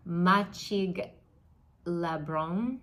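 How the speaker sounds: Machig Labron said with a French accent. Real, not acted. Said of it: "I kinda said that with a French accent".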